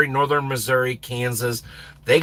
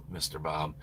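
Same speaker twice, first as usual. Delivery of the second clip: mock-weary whisper; exasperated whisper at a viewer; whispered sigh; 10 semitones lower, 13 dB quieter than usual. Real, not acted. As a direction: sigh out the name under your breath. Sighing at a viewer.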